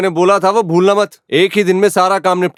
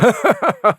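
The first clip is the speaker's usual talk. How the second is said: laugh; 4 semitones higher than usual. Acted. Amused at being told to be serious.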